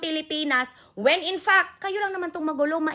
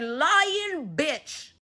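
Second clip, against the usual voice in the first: angry retort; 2 semitones higher than usual. Real, not acted. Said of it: "And I'm gonna call you on your lies".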